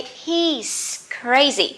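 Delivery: slow model contraction. Shown as a demonstration. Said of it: "So you can say".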